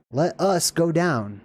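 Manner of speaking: "us" leaned on, slow and deliberate; slow down and weight the word "us"; stress on "us". Shown as a demonstration. Teacher emphasizing a word of scripture, stress on "us". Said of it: "let's emphasize that".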